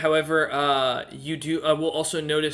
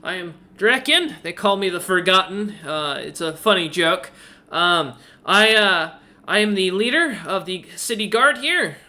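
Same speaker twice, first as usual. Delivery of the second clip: chirpy owl innkeeper; 3 semitones higher than usual. Acted. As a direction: play the helpful owl host, pitched up.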